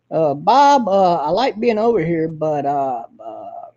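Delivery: halting, full of uhs, sinking into a mumble; a hint of Harry's hesitant drawl; imitating Harry. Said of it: "He talks like this".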